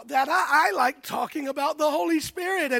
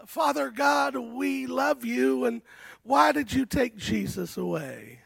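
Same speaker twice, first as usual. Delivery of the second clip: lowered, softer prayer voice, slowing down; imagined disciples' prayer; 3 semitones lower, 4 dB quieter than usual. Retold or imitated. Preacher voicing the disciples' first prayer, hushed and pleading. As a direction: voice the disciples praying softly. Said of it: "the first few prayers started like this".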